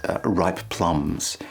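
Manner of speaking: "ripe plums" run together, mushy; awkward ripe plums. Shown as a demonstration. Singing teacher demos the awkward join. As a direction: slur the two P's into each other. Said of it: "Kind of awkward, doesn't flow".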